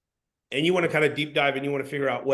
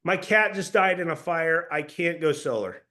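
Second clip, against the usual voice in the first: mock grieving customer; 2 semitones higher, 3 dB louder than usual. Customer tells the salesman his cat died, mock grief. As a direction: play a customer whose cat died, half-laughing. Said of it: "Hey, hey, this is Mike".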